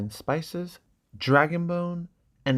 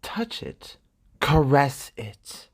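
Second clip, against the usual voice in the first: hushed, slow, coaxing whisper; slow whispered merchant's coax; seductive whisper; 3 semitones higher, much slower than usual. Acted. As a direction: breathe it out like a silk merchant tempting her. Illyrio showing Dany the silk.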